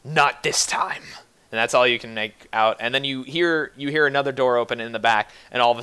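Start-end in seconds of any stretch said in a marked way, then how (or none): 0.0-1.0 mild mock shout, drawn out slowly; a restrained, slow version of a defiant shout; acted shout. Game master voicing a shout heard from inside, held back. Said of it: "you can hear some more shouting".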